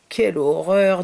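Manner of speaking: both men aghast at the mess, loud; mock horror. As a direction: cry out in horror. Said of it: "dirent-ils en chœur".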